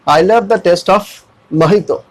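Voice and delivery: slow sentence, mojito as "mo-hee-to" with the end tucked in; softened final syllable. Shown as a demonstration. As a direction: say mojito with h and a light last "to". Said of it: "थोड़ा सा sound एंड में क्या होगा". (धीरे से, mojito का आखिरी "तो" दबाकर)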